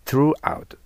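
"throughout" begun like "tsu", tongue between the teeth, pitched high. Shown as a demonstration. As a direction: model "throughout" clearly with a bitten th. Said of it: "つという気持ちで言ったらいいです". (throughout を「つ」の気持ちで発音)

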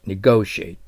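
Negotiate said slowly, stress on GO, ending with a plain t; teacher models Negotiate, slow and careful; pronounced negotiate. Shown as a demonstration. Teacher models the word for students, slow careful pronunciation. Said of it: "Negotiateと発音します".

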